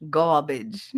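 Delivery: garbage with the R dropped, "gah-bidge"; thick regional accent. Shown as a demonstration. Woman shows viewers her thickened accent, thick regional accent. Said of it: "it's gotten way thicker".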